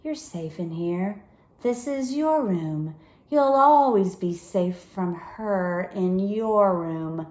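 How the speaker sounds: calm them down gently; eerily calm comfort despite ragged breath. Acted. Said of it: "her voice somehow calm".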